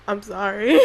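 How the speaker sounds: real tearful apology with sobbing breaths; crying. Real, not acted. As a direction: break down while apologizing. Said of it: "chuckling a little bit while crying".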